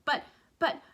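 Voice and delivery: high, loud stammering alarm; alarmed shout. A narrator's reading. Grandpa Joe panicking about the glass, high alarmed stammer. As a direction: sputter in panic. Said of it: "shouted Grandpa Joe".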